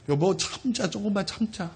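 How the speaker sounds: soft, hushed wife's consoling words; whisper-soft like a wife soothing him; tender comfort. Retold or imitated. Husband recalls his wife hushing him, softly consoling.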